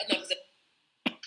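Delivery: put-on slow, light Jamaican accent; a hint of a Jamaican mother putting her foot down. Mom telling her shy daughter enough, light Jamaican accent. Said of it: "in her Jamaican accent".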